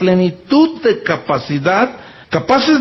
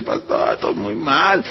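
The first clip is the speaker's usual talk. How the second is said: put-on upset young man; 6 semitones lower, 6 dB quieter than usual. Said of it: "llegó llorando".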